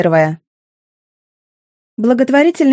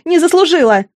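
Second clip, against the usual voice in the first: higher, strained cry on не заслужила; anguished cry; 7 semitones higher than usual. A narrator's reading. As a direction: repeat не заслужила as a breaking scream. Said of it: "Её надрывной крик". (надрывный крик: не заслужила)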